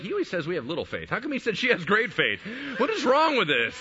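mock indignant, climbing in pitch; indignant complaint. Disciples grumbling about her great faith, indignant complaint. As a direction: protest the unfairness, building to a high finish.

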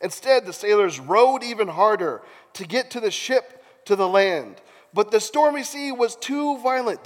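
animated Bible storytelling; theatrical narrator; dramatic scripture reading. A narrator's reading. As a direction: stress the struggle as you narrate. Reads scripture aloud dramatically.

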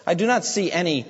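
preacher voicing the wicked man's contempt; scornful wicked man. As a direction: scoff at the poor Christian. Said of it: "As for the wicked man".

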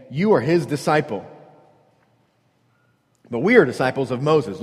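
acted reviling retort; mild scorn, stressing YOU and WE; aggressive. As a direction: throw the accusation back at him. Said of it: "in a really profound and aggressive way".

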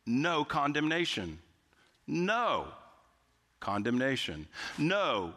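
"no" held long and set apart by pauses; stress on "no". Real, not acted. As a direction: make "no" stand alone, in all caps. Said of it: "think of it in all caps".

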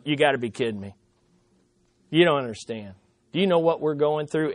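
low, soft grumbling; mumbling complaint. Retold or imitated. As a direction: grumble it under your breath like a tired spouse. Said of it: "people are mumbling".

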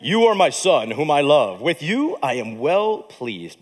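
a hint of a booming voice from heaven; deep voice of God. Shown as a demonstration. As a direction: let the last words sink down like a father's blessing. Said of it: "I like the deep voice better".

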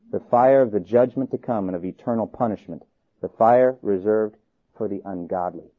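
low, measured warning; solemn answer. A narrator's reading. Polycarp answering the governor's threat, low and solemn.

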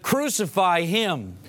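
slow, half-retold mob shout from a sermon; crowd shout. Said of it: "But they shouted".

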